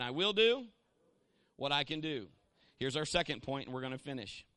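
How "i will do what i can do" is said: repeat the call. Shown as a demonstration. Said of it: "Say it again".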